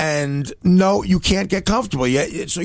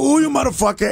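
higher, hammed-up guttural snarl; guttural growl; 9 semitones higher than usual. Boss snarling at the apprentice again, mock guttural growl. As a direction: snarl it like he wants to strangle you. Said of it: "like a guttural".

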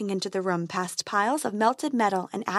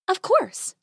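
fairy voice; 9 semitones higher than usual. Acted.

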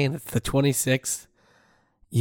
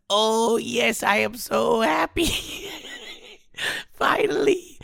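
grand mock ceremonial call, higher; hushed creepy legend telling; 5 semitones higher than usual. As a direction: gather the villagers for the oracle. Mock ceremony awaiting the letter.

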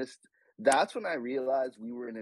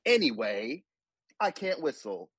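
put-on British accent. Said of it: "said it back to me in a British accent".

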